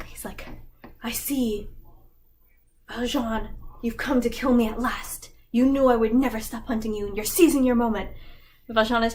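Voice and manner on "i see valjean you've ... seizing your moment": theatrical, building louder and faster at the end; dramatic villain. Retold or imitated. Javert, tied up, dramatically addresses Valjean the hammed-up villain. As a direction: play the doomed nemesis to the hilt. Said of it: "Very dramatic".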